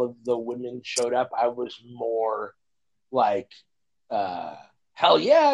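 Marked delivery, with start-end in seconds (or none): 4.9-5.5 a high, loud hell yeah, pumped; fired up. Retold or imitated. Recalling the theater, fired-up cheer. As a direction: shout it like the heroes just arrived. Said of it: "like, fired up".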